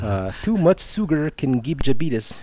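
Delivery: jabetus, diabetes in a light Filipino accent; lightly put-on Filipino accent, jabetus. Shown as a demonstration. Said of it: "said in a Filipino accent".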